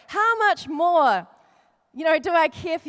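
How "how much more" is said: very slow, how stretched; slow emphasis. Shown as a demonstration. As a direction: draw out how much more.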